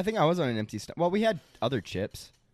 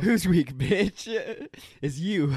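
chip's taunt; 3 semitones higher, much slower than usual. Retold or imitated. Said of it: "The chip said".

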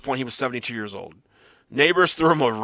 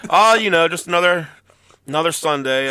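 talking into hand phone; 3 semitones higher, 4 dB louder than usual. Pretend. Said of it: "He's talking it to his hand right now like it's a phone".

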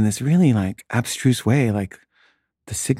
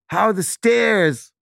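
much higher, slow taunting sing-song; mocking heckle; 10 semitones higher, slower than usual. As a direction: taunt him like a campus heckler. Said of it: "yell at him".

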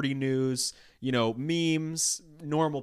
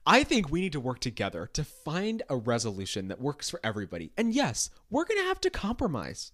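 politician voice. Pretend. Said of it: "You're such a politician".

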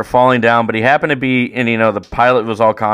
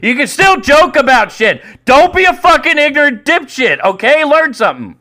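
high, heated lecturing; worked-up, pushed-up indignant voice; scolding rant; 4 dB louder than usual. Real, not acted. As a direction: berate them with comic exasperation.

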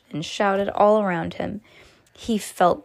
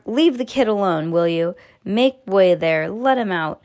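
shouting; 4 dB louder than usual. Acted.

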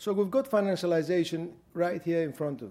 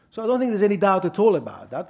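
emphatic; 6 semitones higher, 9 dB louder, faster than usual. Real, not acted. Emphatic restatement in lecture.

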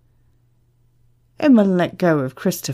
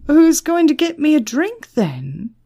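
high, loud demand for service; loud, pushy customer; arrogant man; 9 semitones higher, 5 dB louder than usual. A narrator's reading. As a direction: call out across the bar, cocky.

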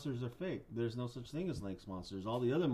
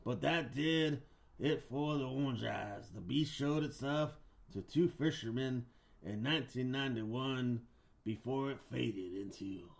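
story narration. Acted. Host tells monster legend, storyteller voice fading at the end. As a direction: spin it like a spooky campfire legend.

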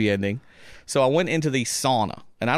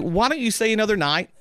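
coaxing invitation; 8 semitones higher than usual. Retold or imitated. Stranger invites him.

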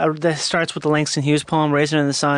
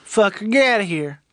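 mock outrage; 5 semitones higher than usual.

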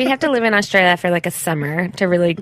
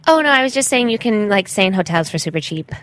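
put-on self-absorbed gap-year girl; traveling white girl. Traveling white girl describing her journaling, self-absorbed. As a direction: play an oblivious traveler sharing her journey. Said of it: "is this a traveling white girl?".

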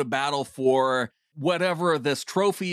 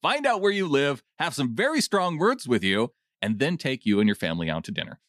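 steady read-aloud of a fan's note, a bit lower; reading a comment; 3 semitones lower than usual. Acted. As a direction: read the listener's words out for the show. Reads listener comment aloud.

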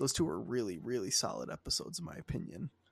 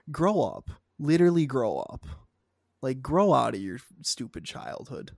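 louder, exasperated grow up; angry rant; 5 dB louder than usual. Real, not acted. To whining fans, a loud exasperated grow up. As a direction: tell the fans off with real heat.

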